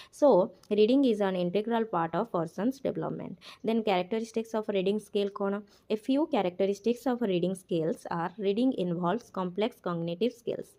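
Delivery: slow, deliberate reading of the English text aloud; slow textbook reading. Acted. Teacher reads the textbook line aloud, very slowly. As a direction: read each word out slowly for the class.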